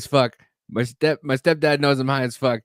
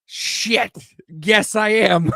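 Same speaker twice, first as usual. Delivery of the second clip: slow, laughing admission, pitched higher; caught out; 7 semitones higher, 3 dB louder, much slower than usual. Retold or imitated. Caught high by an old acquaintance, laughing slowly. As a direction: own up with a stoned laugh.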